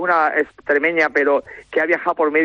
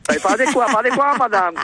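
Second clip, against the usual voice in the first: playful French reply, pitched up; French accent; 5 semitones higher than usual. Pretend. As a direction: answer in mock French, higher. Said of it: "ese acento francés".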